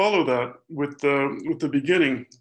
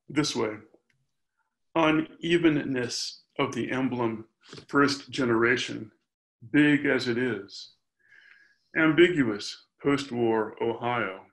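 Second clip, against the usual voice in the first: poetry reading. Acted. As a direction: give each phrase its own line, with pauses. Reads next poem aloud.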